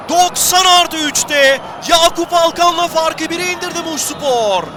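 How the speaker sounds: excited commentator. Real, not acted. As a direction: call the late goal with energy. Late goal for Muşspor. (heyecanlı maç spikeri)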